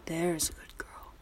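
slow creepy praising whisper. Acted. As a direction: purr it close and slow.

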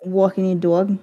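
put-on New York accent. Teasing about walking the dog, mock New York accent. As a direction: play up the New York vowels. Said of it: "New York accent".

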